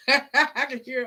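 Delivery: laughing loudly while starting to speak; half-laughing, half-talking. Real, not acted. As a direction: burst out laughing, drawing the words out slowly. Laughing about the song.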